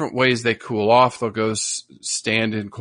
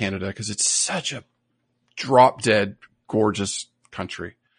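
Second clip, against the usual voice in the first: ordinary delivery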